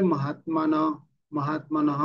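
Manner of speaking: মহাত্মানহ with a short, light final h; half h ending. Shown as a demonstration. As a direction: let মহাত্মানহ stop on a half-sounded h. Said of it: "অর্ধেক উচ্চারণ". (মহাত্মানহ শেষে অর্ধেক হ)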